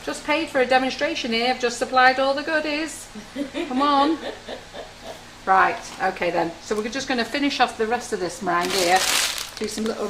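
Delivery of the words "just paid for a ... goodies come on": mock exasperated. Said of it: "rein you all in and go".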